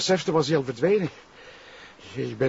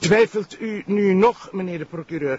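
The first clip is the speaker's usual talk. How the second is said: angry accusation; 3 semitones higher than usual. Acted. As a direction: accuse him to his face. Sergeant confronts prosecutor angrily. (boze beschuldiging)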